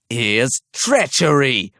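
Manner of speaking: slow, booming accusation from the chief archer; cried out. A narrator's reading. Chief archer to the crowd, crying out treachery. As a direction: proclaim it slowly to the whole square. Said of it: "he cried".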